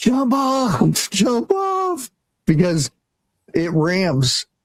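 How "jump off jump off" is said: very high, stretched-out, drawn-out shout. Retelling yelling to a sledder heading toward a fence: retelling a yell. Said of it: "and I'm yelling".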